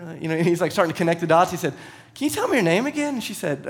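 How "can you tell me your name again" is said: stunned disbelief. Retold or imitated. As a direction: pitch jumps way up in shock. Friend realizes it's Taylor.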